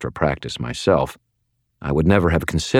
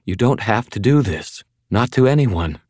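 thready pleading; 6 semitones higher than usual. Acted. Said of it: "her voice thready".

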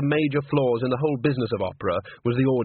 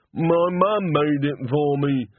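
simple-minded servant; 3 semitones higher, 3 dB louder, much slower than usual. Acted. Walter defends his beret.

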